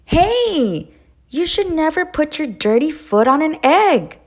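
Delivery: high, fast, loud scolding duck. A narrator's reading. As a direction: tell Goose off sharply. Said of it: "Duck scolded".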